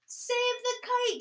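slow, high and loud shout. Acted. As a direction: yell out in alarm. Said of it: "shouted Mole".

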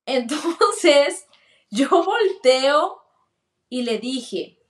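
slow words broken by a real laugh. Real, not acted. Laughing as she tells the pastor how she turned. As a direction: let a laugh spill into the words. Laughs while retelling turning around.

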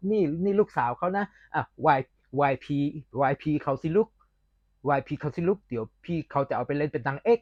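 imitated southern Thai parent; southern Thai accent. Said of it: "สำเนียงอย่างเนี้ย".

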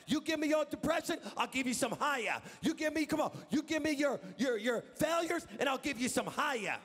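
preacher shouting God's offer; voicing God, preaching. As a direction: plead as God offering an exchange. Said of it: "It means this".

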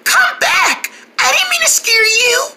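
high-pitched plea to come back; calling after. Acted. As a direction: call out high, trying to stop someone leaving. Calling after fleeing bird.

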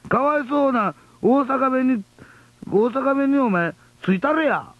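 angry letter voice. Retold or imitated. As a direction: plead for poor Osaka dialect like an irate listener. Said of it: "こっち怒ってるんですね".

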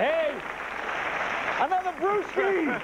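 slob guy voice. Retold or imitated.

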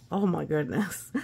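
loud gasp of shock. Acted. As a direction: gasp and exclaim in surprise. Knight falls in hole.

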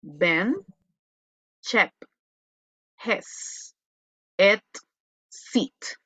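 "bend, chep, hes, et, set" each with a soft short E; teacher drilling "chep" and "set" slowly with a soft E; word list read slowly, one word at a time, soft E on each; soft E vowel. Shown as a demonstration.

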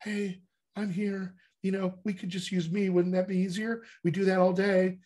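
a hint of a wheedling character; accent personified. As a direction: coax gently as a lightly played little inner voice. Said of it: "our accents are always here, present, going".

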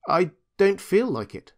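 a slightly high, reluctant refusal; reluctant little rabbit. A narrator's reading. Toy rabbit hiding his lack of clockwork, reluctant.

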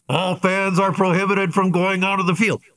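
a touch of a stadium PA warning; PA announcer. Retold or imitated. PA guy warning the fans off the field, mild announcer voice. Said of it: "and the guy says".

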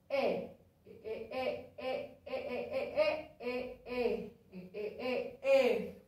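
ordinary delivery

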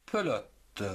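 "pelote" said pe-lo-te, final e sounded; "pelote" measured out in syllables, pe-lo-te; syllable demonstration. Shown as a demonstration.

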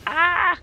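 high, loud yelp of alarm; startled scream. Real, not acted. Player startled by flying spikes, startled scream. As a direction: scream out as if suddenly attacked. Attacked by reaper in game.

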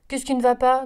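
loud, displeased wolf demanding an answer; wolf snaps at the farm animals, loud and displeased; displeased growl. Acted. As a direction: growl it out, fed up with being ignored. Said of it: "grogna-t-il fort mécontent".

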